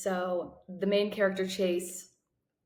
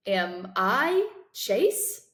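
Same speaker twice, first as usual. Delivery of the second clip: very slow, stunned question on I; lost question; 4 dB louder, much slower than usual. Acted. Boy asks the room if he is Chase, very slow. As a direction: ask it slowly, afraid of the answer. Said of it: "I ask".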